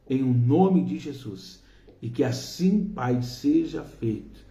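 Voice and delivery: earnest, projected prayer addressed to God; fervent prayer. Real, not acted. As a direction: pray aloud for each person, insistently. Leads a spoken prayer. (oração fervorosa em voz alta)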